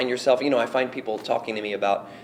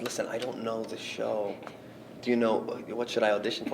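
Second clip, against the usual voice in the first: soft nervous asking; quiet; 7 dB quieter than usual. Retold or imitated. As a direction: ask softly, unsure. Nervous whisper to stranger.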